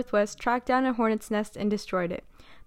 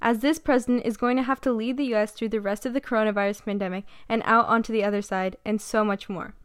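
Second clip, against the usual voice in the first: steady newsreader delivery; news anchor. Acted. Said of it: "that was me sounding like a great news anchor".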